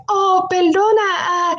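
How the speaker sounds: high, slow, drawn-out apology; apologising older woman. Retold or imitated. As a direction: imitate an embarrassed woman saying sorry. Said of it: "And she's apologizing".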